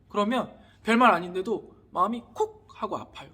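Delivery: ordinary talk, nothing marked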